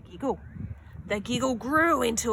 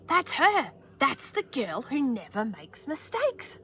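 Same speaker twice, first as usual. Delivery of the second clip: higher excited whisper-gossip; excited woman; 5 semitones higher than usual. Acted. A woman in the audience points out Beatrice, excited. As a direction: point her out eagerly. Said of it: "said a woman".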